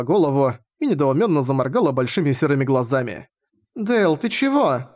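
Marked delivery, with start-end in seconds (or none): 3.7-4.9 put-on high, slow startled child; a girl caught off guard; surprised young girl. Latina surprised. (удивлённая девочка)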